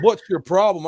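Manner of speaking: imitated snappy challenge; retold bit of attitude; cop with attitude. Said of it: "come up with an attitude".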